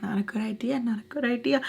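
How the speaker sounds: hushed whisper, shaking heads; whispered warning. Retold or imitated. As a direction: whisper it like a worried brother.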